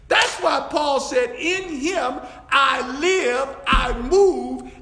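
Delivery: fervent pulpit delivery; impassioned preaching. Real, not acted. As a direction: preach it out, stretching the key words. Preaches at rising force.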